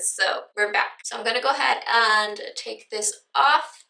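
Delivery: wearing a wet sheet mask; speaking with mouth hole in mask; talking with face mask on. Real, not acted. Seen 0: Wet sheet mask covers face, mouth cutout leaves lips free.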